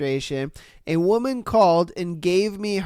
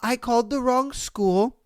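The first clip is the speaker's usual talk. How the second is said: halting, small-voiced backing down; sheepish mimicry. Imitating a caller who yelled at staff then apologized, sheepish. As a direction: pause between each little apology, then sign off.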